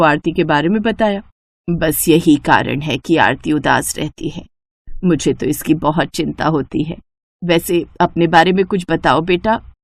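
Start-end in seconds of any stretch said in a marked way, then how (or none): 1.7-9.7 mother-in-law confiding her worry to Rohit; worried mother-in-law. Acted. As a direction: let the worry weigh the words down. Shobha worries about Aarti.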